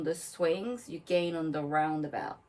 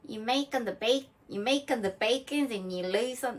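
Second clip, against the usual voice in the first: accidental Australian accent; 4 semitones higher than usual. Shown as a demonstration. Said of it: "that's Australian".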